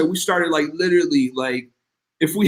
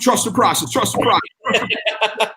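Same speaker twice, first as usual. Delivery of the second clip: anxious mantra; 8 semitones higher, slower than usual. Retold or imitated. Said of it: "I was just like".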